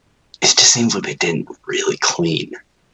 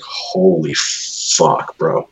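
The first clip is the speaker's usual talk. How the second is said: stunned; much slower than usual. Retold or imitated. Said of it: "I looked at my finger and I was like".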